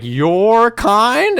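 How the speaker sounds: loud, high, incredulous outburst; retold outraged question. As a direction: blurt it out high and affronted. Same question retold, louder take.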